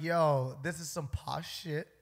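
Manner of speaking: hint of a dad laying down family tradition; stern posh dad. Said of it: "His dad is just like".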